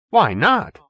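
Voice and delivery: high, lifted echo of the question; lightly voiced old man answering back; echoed retort. A narrator's reading. Pappy echoing Perkins, higher voice.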